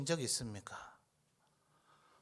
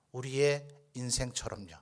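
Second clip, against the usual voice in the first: ordinary talk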